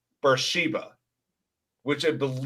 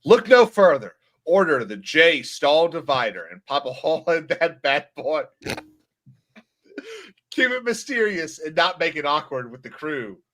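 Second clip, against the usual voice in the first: hammy pirate ad, bursts louder; pirate ad read; 3 dB louder than usual. Pretend. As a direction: bark the ad like a pirate captain.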